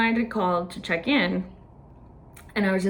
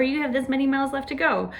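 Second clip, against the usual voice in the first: little lady announcer; 6 semitones higher than usual. Retold or imitated. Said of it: "the little lady comes on".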